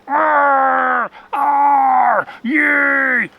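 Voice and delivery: high, loud, eerie howling wind voice; ghostly storm voice. A narrator's reading. The storm wind moaning words at the rabbit, eerie and loud. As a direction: let the wind itself moan the words. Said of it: "the noises even began to sound like an actual series of words".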